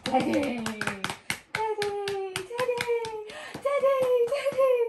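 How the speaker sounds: high, loud calling. Real, not acted. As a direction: call the dog from across the yard. Calling the dog over.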